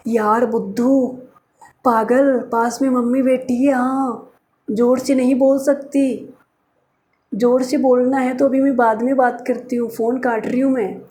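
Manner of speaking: lightly voiced girlfriend, hushed and scolding. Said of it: "girlfriend voiced on phone call".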